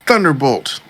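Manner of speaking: Pokemon trainer voice. Retold or imitated. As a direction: call out the attack like a Pokemon trainer. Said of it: "He's like".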